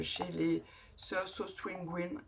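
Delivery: slow, careful "Sœurs So String Green" in a French-English accent; hesitant English name in a French accent. Real, not acted. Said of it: "Excusez-moi pour mon accent".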